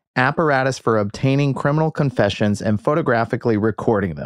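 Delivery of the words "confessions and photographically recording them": ordinary talk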